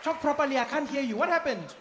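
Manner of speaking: a hint of an impatient mother; stern mom. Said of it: "mom would be like".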